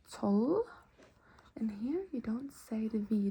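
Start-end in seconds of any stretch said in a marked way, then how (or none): 1.6-3.3 whisper. Acted.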